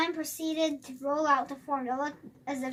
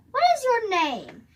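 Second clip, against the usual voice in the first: high sing-song question; 9 semitones higher, 5 dB louder than usual. A narrator's reading. Doctor coaxing the boy with a bright sing-song. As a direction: sing it to make it fun. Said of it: "sing-song tone".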